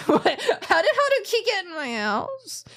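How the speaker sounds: high, loud baffled question; half-laughing alarm; startled. Real, not acted. Player startled by the character's arrival.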